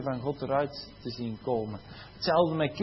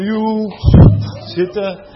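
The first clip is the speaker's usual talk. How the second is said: much higher and louder, sing-song; tossed-off greeting like a student walking past; hammed-up casual pupil chatter; mock careless teen; 6 semitones higher, 16 dB louder, much slower than usual.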